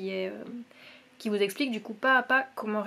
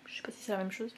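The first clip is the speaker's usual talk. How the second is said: whispered aside; 9 dB quieter, much faster than usual. Real, not acted. Knitter wondering aloud to viewers, whispered. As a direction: drop to a whisper, just to herself. Aside doubting yarn names.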